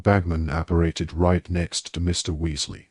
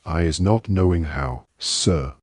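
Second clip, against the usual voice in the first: squeaky elf voice. Acted. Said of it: "Winky's got a squeaky little voice".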